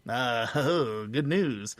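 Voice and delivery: creepy, friendly stranger voice; lightly voiced serial killer.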